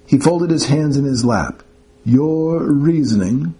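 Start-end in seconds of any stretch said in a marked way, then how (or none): 2.0-3.5 imperious demand. Acted. Professor demanding explanation.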